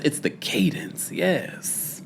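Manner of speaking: soft whispered read of a comment. Real, not acted. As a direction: whisper it like a secret. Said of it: "Sage says".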